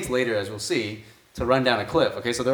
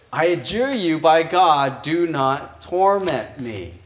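slow, louder, pleading demon voice; a preacher voicing a frightened demon, slow and louder; 3 semitones higher, 5 dB louder, slower than usual. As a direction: beg not to be tormented, drawn out slowly. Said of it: "and then he says".

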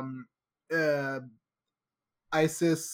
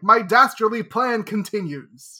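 slow, louder hammed-up villain; dastardly villain; 5 semitones higher, 7 dB louder than usual. The trapped villain still boasting, slow hammed-up villain. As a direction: savor each word like a moustache-twirling baddie.

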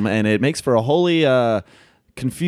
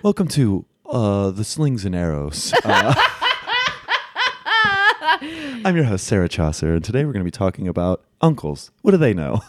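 NPR host. Pretend. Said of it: "sounds like an N P R host".

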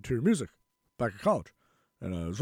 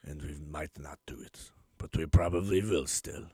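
a hammed-up bad Russian accent; joking about Russia's demands in a bad Russian accent; terrible Russian accent; 3 semitones lower than usual. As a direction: do a clumsy mock Russian accent. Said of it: "It's a terrible Russian accent".

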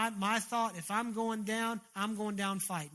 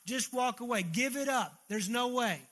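raised, forceful accuser's voice; acted yelling; 2 semitones higher, 3 dB louder than usual. The devil yelling condemnation into a believer's soul, mild acted yell. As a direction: drive each charge home, mildly yelled. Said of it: "yelling at the top of his lungs".

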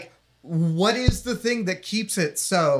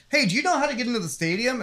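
quick, higher-pitched hint of Staten Island; Staten Island accent; 6 semitones higher, much faster than usual. Retelling a couple asking directions, attempted Staten Island accent. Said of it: "I can't do a Staten Island impression".

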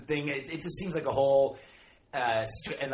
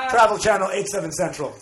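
mock TV announcer; 5 semitones higher, 7 dB louder than usual. Mock TV channel promo tagline.

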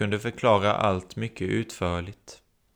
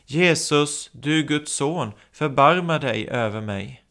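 high, louder plea to Jesus; crying out; 5 semitones higher, 4 dB louder than usual. Acted. Blind beggar calling louder to passing Jesus, crying out. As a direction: beg him loudly across the crowd. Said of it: "fortsätter att ropa".

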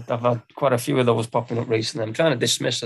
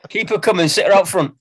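laughing; 9 semitones higher, 5 dB louder than usual. Real, not acted.

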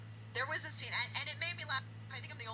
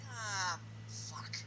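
whispered much softer curse; muttered aside; 3 semitones lower, 9 dB quieter than usual. Retold or imitated. Therapist hanging up the phone, whispered weary curse. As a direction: mutter it to the camera under your breath. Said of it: "mutts to the camera".

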